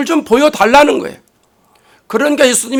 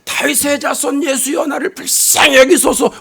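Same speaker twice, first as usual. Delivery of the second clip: higher-pitched calling plea, volume held back; restrained mock shout; retold cry out; 4 semitones higher than usual. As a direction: imitate a blind beggar calling out for mercy. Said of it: "소리를 지릅니다".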